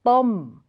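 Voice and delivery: "Tom" with rising and falling tone; Thai tone. Shown as a demonstration. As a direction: say "Tom" the Thai way, unaspirated T, short o. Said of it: "rising and falling tone of".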